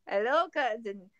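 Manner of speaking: slow Saint Olaf accent impression; Cousin Sven. Fan quoting the smitten cousin, Saint Olaf accent. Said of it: "I can do his accent so well".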